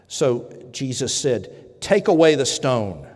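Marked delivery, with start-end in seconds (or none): 1.8-3.1 loud commanding call; Jesus' command. Acted. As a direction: order them to move the stone.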